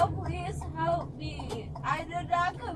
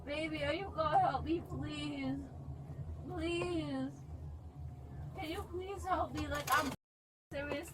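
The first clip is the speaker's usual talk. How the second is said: quiet plea; 10 dB quieter than usual. Real, not acted. Soft plea to officer.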